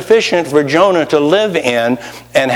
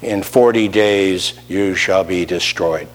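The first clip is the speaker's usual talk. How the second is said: bitter, begrudging; 7 semitones lower, 3 dB quieter than usual. Retold or imitated. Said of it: "bitter, begrudging, ugly, hateful kind of word".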